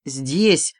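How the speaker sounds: usual speaking voice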